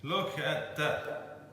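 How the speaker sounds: slow, hushed marvel; hushed awe. Real, not acted. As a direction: breathe it out in wonder. Gazing at the cake.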